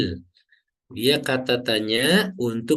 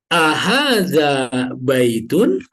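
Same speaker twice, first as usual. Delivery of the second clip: Ahadza baitun slow and louder; question form; 2 semitones higher, 5 dB louder, much slower than usual. Shown as a demonstration. Teacher modelling the question form slowly. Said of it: "ahadza baitun dia jadi kalimat tanya".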